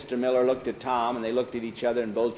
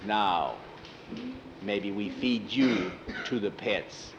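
slow, low brute threat; menacing monster; 3 semitones lower, 5 dB quieter, slower than usual. Acted. Thor threatening the skull with the pets, menacing. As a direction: threaten slowly, pausing after now.

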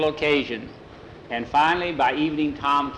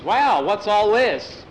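mock surprise; 7 semitones higher, 5 dB louder, slower than usual. Tom surprised by the set table.

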